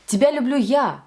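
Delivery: final "я" accented, then falling; "Тебя люблю" leading to a punched "я"; stress on Я. Shown as a demonstration. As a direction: land on "я" at the end: it's me. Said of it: "It's me again".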